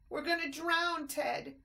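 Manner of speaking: high, loud terrified cry; terrified scream. A narrator's reading. Christopher drowning, calling to Ted in terror. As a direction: scream it in panic. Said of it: "screamed Christopher".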